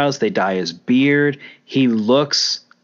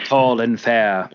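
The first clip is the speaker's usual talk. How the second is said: hammy stage actor; slower than usual. Pretend. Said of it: "if that was an iambic pentameter".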